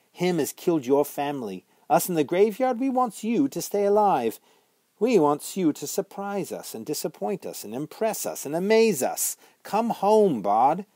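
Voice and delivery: put-on high, loud ghost girl urging him home; a young witch coaxing him back; pleading witch girl. A narrator's reading. Ghost girl begging Bod to come home, high earnest voice.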